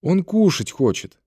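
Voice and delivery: put-on high, drawn-out child's call; slow, high-pitched girl's voice; little girl calling. A narrator's reading. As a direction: call for daddy from another room. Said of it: "донёсся из комнаты голос девочки".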